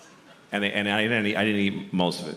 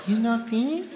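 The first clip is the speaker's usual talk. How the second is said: put-on subtle Japanese accent; 13 semitones higher than usual. Correcting himself, a subtle Japanese accent. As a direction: keep the Japanese accent understated. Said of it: "No, it was subtle".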